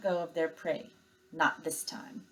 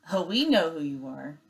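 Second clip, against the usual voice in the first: sarcastic. Acted. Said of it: "Her voice dripped with sarcasm".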